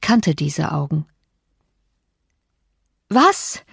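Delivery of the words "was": sudden high "Was?" of shock; shocked cry of disbelief; startled cry. A narrator's reading. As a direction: blurt it out, startled. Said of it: "schrie ich".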